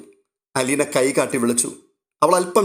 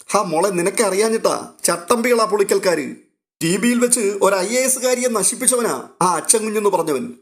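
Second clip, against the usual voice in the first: put-on higher, urgent old man's warning; an old man cautioning his niece, higher and urgent; worried old uncle; 6 semitones higher than usual. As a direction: warn her like a fretful old uncle. Old uncle warns Aleena.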